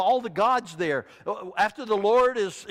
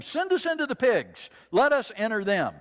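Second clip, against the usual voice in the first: eager demons; 4 semitones higher, 4 dB louder than usual. Acted. Demons begging Jesus.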